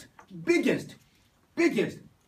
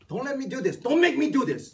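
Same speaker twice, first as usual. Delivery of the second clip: high-pitched mock plea, growing louder; pleading professor; 9 semitones higher, 6 dB louder than usual. Professor begs boastful student to stop, pleading and high. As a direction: plead with him, voice jumping up high. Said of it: "I said".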